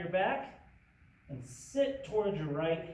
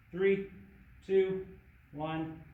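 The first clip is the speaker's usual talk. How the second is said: gung ho; 2 semitones higher, 3 dB louder, much slower than usual. Real, not acted. Coach calling the countdown.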